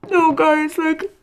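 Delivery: high, loud wail to the viewers; distressed protest. Real, not acted. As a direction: plead in a high, upset voice. Upset reader protesting to viewers.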